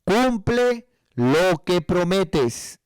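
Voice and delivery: "Cumple lo que prometes" drawn out very slowly, each word weighed; slow emphatic quote. Shown as a demonstration. Preacher quoting scripture to the congregation, very slow and emphatic. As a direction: spell out the scripture slowly so it sinks in. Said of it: "Y dice".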